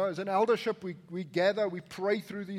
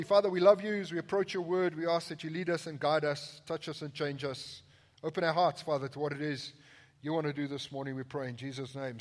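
prayer; 3 semitones lower than usual. Acted. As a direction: pray gently over the congregation. Pastor prays before reading.

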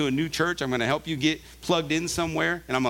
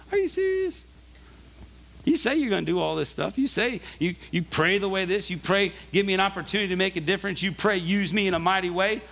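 voicing Jesus; 3 semitones higher than usual. Pastor voicing Jesus to himself.

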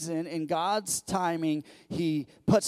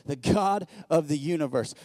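usual speaking voice

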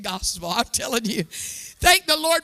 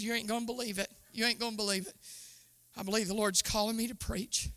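much lower, much softer confiding voice; hushed confession; 5 semitones lower, 11 dB quieter, faster than usual. Retold or imitated. Confessing to best friend Robin, in a low hushed voice. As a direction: breathe the secret out low and soft.

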